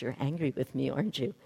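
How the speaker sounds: calmly ask, without blame. Retold or imitated. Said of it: "very calmly".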